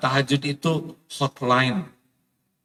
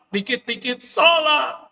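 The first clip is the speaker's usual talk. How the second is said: "Dikit-dikit sholat." laughed out high and slow; laughing repeat; 9 semitones higher, slower than usual. Real, not acted. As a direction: chuckle through the catchphrase.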